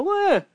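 high, whiny yelp; cartoon dog whimper; mock whimper. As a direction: play the dog backing down with a yelp. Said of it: "And that dog will go".

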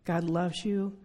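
ordinary talk

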